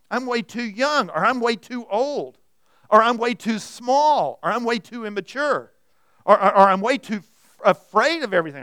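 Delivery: loud, insistent list of mock excuses; hammed-up self-doubt, punching each failing; making excuses. Preacher rattles off our excuses to God, loud mock protesting. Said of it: "start kind of making excuses".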